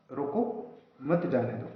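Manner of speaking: रोको alone, pause, then मत जाने दो together; pause after रोको. Shown as a demonstration. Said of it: "अगर हम किसी को रोकना चाहते हैं". (रोको के बाद ठहराव, फिर मत जाने दो साथ में)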